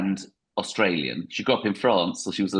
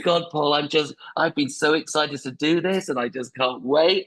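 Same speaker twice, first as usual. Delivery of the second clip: higher, slow hammed-up excitement; mock gushing guest; 4 semitones higher than usual. Guest fawning over the American host, slow mock gush. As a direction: drag out the fake gushing. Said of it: "I'd be going".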